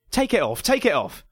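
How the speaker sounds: high, loud repeated command; urgent yell, rising on the repeat; yelled order. A narrator's reading. Neighbour's son towering over the narrator, high urgent yell. Son yells about his soiled mask.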